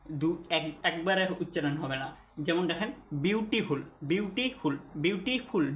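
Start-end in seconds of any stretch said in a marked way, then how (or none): 3.1-5.7 বিউটিফুল divided into বিউটি and ফুল, repeated; syllable demo. Shown as a demonstration. Teacher demonstrates word parts, বিউটিফুল split before ফুল. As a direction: set ফুল apart in বিউটিফুল. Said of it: "দুইটা আছে".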